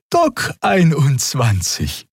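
high, slow and obliging; friendly high Draxül reply; amiable Xea. A narrator's reading. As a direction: answer sweetly in the alien voice. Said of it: "antwortete Xea liebenswürdig".

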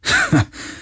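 short, high scoffing laugh; bitter laugh. A narrator's reading. Galen scorns the idea of negotiating, bitter laugh. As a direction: let out a brief bitter ha. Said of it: "Er lachte bitter".

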